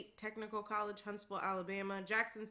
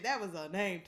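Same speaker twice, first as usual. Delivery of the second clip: ordinary talk, nothing marked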